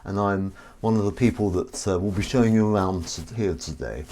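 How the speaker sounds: lightly put-on polite guide voice; a mild friendly tour guide greeting visitors; tour guide voice Roger. Shown as a demonstration. Host shows off his Roger guide voice, lightly put on. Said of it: "I've got this voice in my arsenal".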